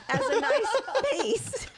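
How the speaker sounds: words dissolving into giggles; laughing. Real, not acted. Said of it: "I can't stop laughing".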